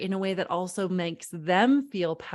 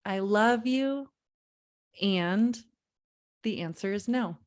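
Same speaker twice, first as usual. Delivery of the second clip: slow demo. Shown as a demonstration. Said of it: "Write that down".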